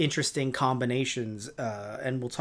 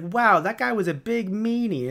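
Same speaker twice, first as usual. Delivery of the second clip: put-on pitched-up, childlike complaint; mock naivety; 5 semitones higher, 3 dB louder than usual. Onlooker reacting to Grumble's insults, mock naive voice. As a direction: say it as a mildly wounded innocent.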